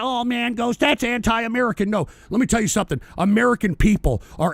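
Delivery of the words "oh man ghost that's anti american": quieter, mocking whine of critics; mock whining. Mocking the whining critics in a soft whiny voice. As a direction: whine it back at the listeners. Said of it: "all you people that are whining".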